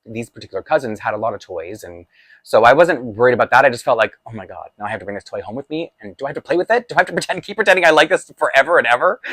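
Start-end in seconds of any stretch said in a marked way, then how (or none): 4.2-9.2 rising, exasperated inner panic; mock dismay. Boy dreading keeping the toy, mock panic. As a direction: spiral into dread about the toy.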